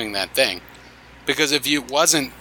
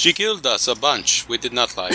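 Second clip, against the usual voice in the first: put-on a mild, half-hearted German accent, slipping toward Russian. Speaking as a German soldier about the Night Witches, light German accent. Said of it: "My German accent just sounds Russian now".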